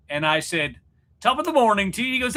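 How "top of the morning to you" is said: high, lilting mock British that comes out Irish; botched British accent. Host recalling his accent blunder, bad Irish-sounding British accent. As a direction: attempt British, land on stage Irish. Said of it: "That's Irish".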